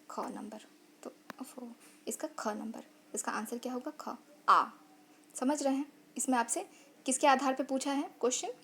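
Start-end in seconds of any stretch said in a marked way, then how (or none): 0.1-4.6 whispered while thinking it through; half-whispered aside, working out the answer; muttering to himself. Real, not acted. (धीमी फुसफुसाहट में सोचते हुए)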